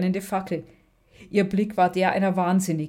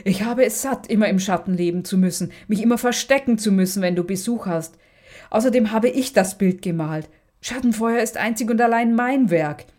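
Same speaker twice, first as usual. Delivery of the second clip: louder, bitter and resentful rant; furious hiss; 3 semitones higher, 4 dB louder than usual. Acted. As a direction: spit out years of grievance. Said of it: "zischte Magda".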